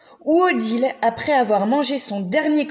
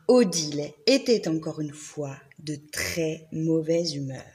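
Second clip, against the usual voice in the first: gentle storybook reading voice; story narration; 3 semitones lower than usual. A narrator's reading. Reading a picture book to the library kids. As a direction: tell it like a bedtime tale.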